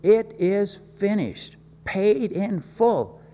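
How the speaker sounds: lightly voiced triumphant cry; mild loud cry. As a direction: call out each word slowly and high. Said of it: "to cry out loudly".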